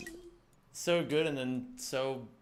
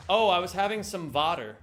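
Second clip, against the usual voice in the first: Dutch-style v for the w in water; lightly put-on Dutch pronunciation; mock Dutch accent; 3 semitones higher, 5 dB louder than usual. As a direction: imitate a Dutch speaker, "vater". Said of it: "Dutch people do this all the time".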